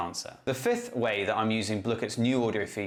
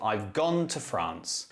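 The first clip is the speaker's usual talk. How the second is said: slow model sentence, GONE and France stressed; weight on "gone" and "France", "to" unstressed; slower than usual. Shown as a demonstration. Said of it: "the words that are stressed".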